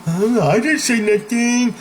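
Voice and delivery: high, whiny denial in a put-on voice; defensive Alice. Gossip Alice denying it to the speaker, high and defensive. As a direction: play the caught gossip playing innocent. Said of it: "Alice will".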